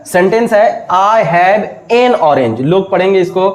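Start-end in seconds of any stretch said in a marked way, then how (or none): 0.9-2.6 I have an orange read slowly; slow careful read. Shown as a demonstration. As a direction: spell it out slowly. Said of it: "same sentence लिख रहा हूं मैं". (I have an orange धीरे से पढ़ें)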